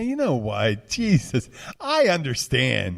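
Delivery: imitated Southern accent, drawn out at the end; mock Southern accent. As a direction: put on a slow-ending Southern accent. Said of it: "just like the Southern accent".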